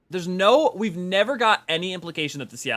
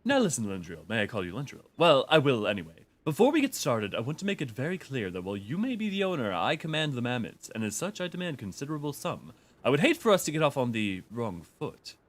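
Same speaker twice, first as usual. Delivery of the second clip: flat, even robot voice. Acted. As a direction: read it like a stiff robot. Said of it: "I will miss doing the robot voice".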